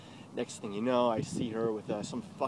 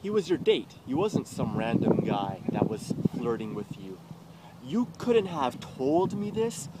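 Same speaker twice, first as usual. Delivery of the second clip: retold accusation; 3 dB louder than usual. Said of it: "And I'm like".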